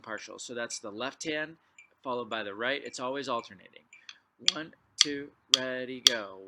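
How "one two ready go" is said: loud, crisp count-off to start the players; called count-in. Real, not acted. Teacher calls the count so the drummers start together, loudly. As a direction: shout the count-in to the line.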